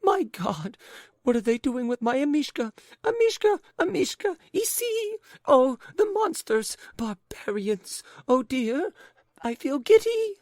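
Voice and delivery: very high, loud frantic wails; hysterical lady. A narrator's reading. Lady in hysterics over her dog, very high and loud. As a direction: shriek in rising hysteria.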